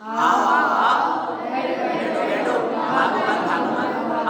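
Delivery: slow half-voiced mumbling to himself; muttered repetition. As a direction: murmur it over and over, slowly. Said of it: "क्या गुन रहे थे?".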